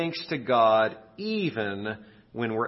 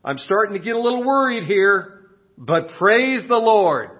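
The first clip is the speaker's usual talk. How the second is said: higher, louder, worried prayer; widow praying; 7 semitones higher, 4 dB louder than usual. Acted. Widow praying to God from her porch, worried. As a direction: pray up, worried but trusting. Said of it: "lifts her hands and says".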